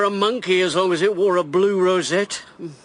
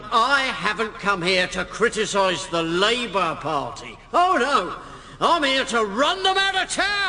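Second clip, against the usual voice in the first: raised, projecting political oratory; rally speech; 2 semitones higher than usual. Acted. Candidate addressing the Conservative rally, rousing. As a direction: work the crowd from the platform.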